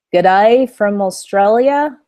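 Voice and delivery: a hammed-up Australian accent, slow and loud. Shown as a demonstration. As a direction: put on your best Australian accent for a cheerful sign-off. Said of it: "That's my best Australian accent".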